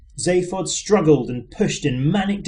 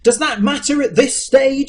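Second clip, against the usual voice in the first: higher, louder desperate shout; shouting Arthur; 9 semitones higher, 4 dB louder than usual. A narrator's reading. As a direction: shout it over the din. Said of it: "shouted Arthur".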